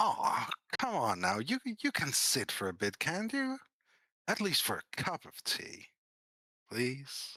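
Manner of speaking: sweet, sweetly inviting voice. Voicing a man urging a player to sit for tea: sweet-sounding voice. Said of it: "he might sound sweet in the way he says that".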